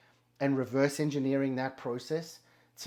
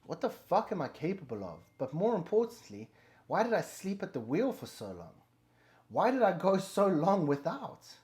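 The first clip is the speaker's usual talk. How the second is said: amazed, fired-up self-talk; 5 semitones higher, 4 dB louder than usual. Retold or imitated. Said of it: "'Cause you're like".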